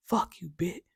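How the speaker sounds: whisper. Real, not acted. Whispered curse aside.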